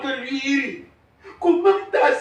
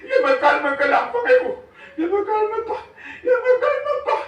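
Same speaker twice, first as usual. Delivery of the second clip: refus indigné; 8 semitones higher, 5 dB louder than usual. Acted. Père refuse de se calmer.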